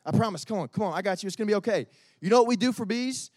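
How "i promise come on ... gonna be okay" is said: put-on calm a scared child down gently; soothing parent. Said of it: "and say".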